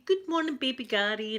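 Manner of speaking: put-on high sing-song baby greeting; a mum cooing good morning to a baby. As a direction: chirp it up high like you're greeting a little one. Greeting baby across the ward.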